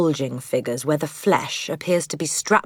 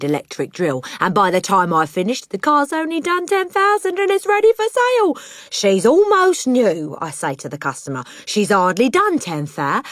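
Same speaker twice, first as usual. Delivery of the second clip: cockney salesman warming to his scam, rising high; boastful crooked father; 4 semitones higher than usual. Acted. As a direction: revel in the swindle.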